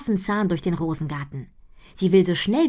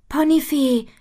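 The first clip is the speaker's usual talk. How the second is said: calling out; 10 semitones higher, 6 dB louder, slower than usual. A narrator's reading. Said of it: "ruft Butterblume".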